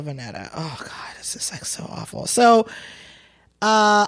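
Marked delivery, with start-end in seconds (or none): 0.0-2.3 hushed secretive whisper. Real, not acted. Gossiping to her co-host, she whispers. Secretive aside about a Jenner.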